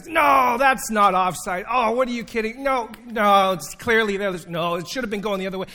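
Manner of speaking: loud, high sideline heckling at the ref; heckling shout. Retold or imitated. Pastor retelling heckling a soccer ref, loud mock-indignant shout. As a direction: yell it from the sidelines so the ref hears. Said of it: "I'm just talking loudly so that the ref can hear me".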